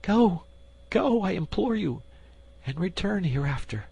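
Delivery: very high, pleading queen begging him to go; desperate queen imploring. Acted. Queen begs the duke to depart, high and pleading.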